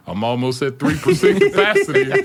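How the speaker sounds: very high, loud cartoonish panic; mock boss voice. Mocking the boss's phone-count thoughts, very high cartoon voice. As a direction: squeal the imagined count like a frantic boss.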